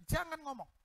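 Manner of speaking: high cutting-off order; sharp interruption. Retold or imitated. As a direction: stop him, pitched high. Daughter cuts off pastor. (memotong dengan nada tinggi)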